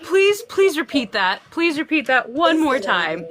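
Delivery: playful re-enacted plea; mock pleading. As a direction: beg for an encore, acted out. Begs grandma in retold scene.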